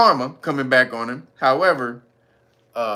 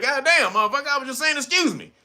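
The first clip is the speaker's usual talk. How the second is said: irritated excuse me; 10 semitones higher than usual. Retold or imitated. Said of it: "you're a little aggressive".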